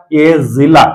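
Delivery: जिला with a clear z, ज़िला; nukta z sound. Shown as a demonstration. Teacher showing the pronunciation differs: जिला with z. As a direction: say जिला as zila. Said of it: "उच्चारण अलग होगा".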